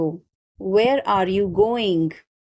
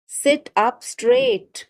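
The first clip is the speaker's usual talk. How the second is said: higher and slower, drawn out; raised pitch; 9 semitones higher, slower than usual. Shown as a demonstration. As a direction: lift the voice high and stretch out straight. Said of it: "teacher repeats phrase for learners".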